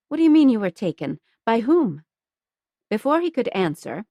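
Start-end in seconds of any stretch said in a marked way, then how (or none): 0.1-2.0 louder, fast, demanding; urgent. Acted. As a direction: fire the questions off fast. Pia demands.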